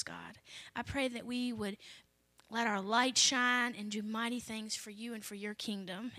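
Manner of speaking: soft, earnest prayer voice. Real, not acted. Pastor praying for the congregation before the reading, soft prayer.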